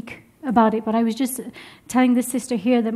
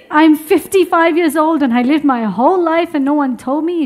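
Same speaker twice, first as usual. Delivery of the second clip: louder, mildly hammed-up distress; mock breakdown; 3 semitones higher, 5 dB louder than usual. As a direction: imitate someone lamenting in a breakdown. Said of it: "having a full-blown breakdown and saying".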